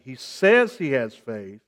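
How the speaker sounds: slow, low line with "says" emphasized; stress on SAYS. Shown as a demonstration. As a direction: lean on "says", drawn out slowly. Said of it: "the emphasis on this word say".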